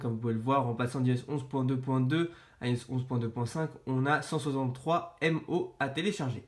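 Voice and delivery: stuffy voice with a blocked nose and sore throat. Real, not acted. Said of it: "j'ai le nez bouché et mal à la gorge".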